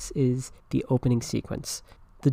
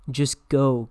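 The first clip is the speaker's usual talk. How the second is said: mildly groaned plea; weary, exasperated dismissal; a touch of a groan; 4 dB louder than usual. Acted. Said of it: "groaned Curly".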